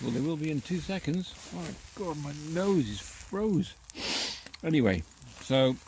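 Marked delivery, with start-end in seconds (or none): 1.5-3.7 slow words from the cold; shivering in the cold; freezing cold. Real, not acted. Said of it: "I'm getting absolutely frozen out here".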